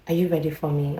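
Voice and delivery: soft-spoken quoted question. Retold or imitated. Neighbor approaches her visitor after the bathroom, soft. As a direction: ask it gently, imitating the neighbor. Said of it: "she is so, ah, soft".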